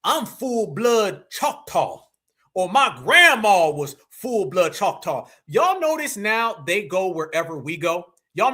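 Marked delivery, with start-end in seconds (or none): 0.0-5.3 slow, drawn-out imitation of a claimant; lightly put-on voice, stretching the words; mock Tether boast. Host mimics Tethers claiming Choctaw blood, slow mock boast. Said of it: "these Tethers are trying to say".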